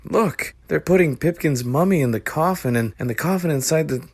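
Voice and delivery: put-on fast high excited kid; excited boy voice. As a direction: rush it out.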